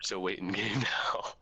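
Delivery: hushed whisper, hiding. Real, not acted. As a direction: whisper so enemies won't hear. Hiding from nearby enemies.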